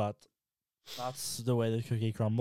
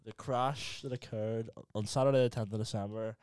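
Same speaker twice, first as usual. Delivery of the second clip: measured, deadpan announcement with pauses; halting formal declaration; mock official statement; 2 semitones lower than usual. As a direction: read it out like a solemn legal statement.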